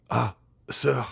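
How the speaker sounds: mildly agonized address; stricken appeal. A narrator's reading. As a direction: appeal from someone in pain. Stricken servant appeals to master.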